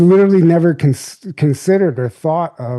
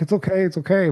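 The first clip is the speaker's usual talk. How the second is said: put-on higher, gentle soothing for a crying boy; reassuring a crying little boy, soothing and high; comforting a child; 5 semitones higher, 3 dB quieter, faster than usual. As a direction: hush a small child softly. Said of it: "Just trying to comfort the little kid".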